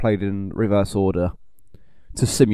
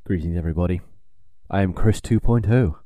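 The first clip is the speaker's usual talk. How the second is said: robotic voice; 5 semitones lower than usual. Pretend. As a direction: speak like a robot clone. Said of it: "My clown sounded very robotic".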